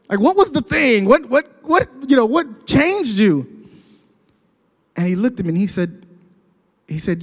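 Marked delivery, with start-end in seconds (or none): 0.1-3.5 high, stammering curiosity; acted urgent questioning. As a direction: fumble eagerly toward the question. Retold eager questioning of friend.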